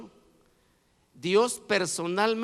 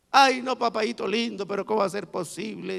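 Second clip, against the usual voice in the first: mock whining; 3 semitones higher than usual. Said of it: "Empezaron a lloriquear".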